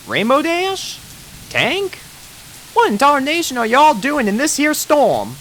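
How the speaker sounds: put-on surprised farm pony, Southern accent; Applejack Southern twang. Applejack character voice.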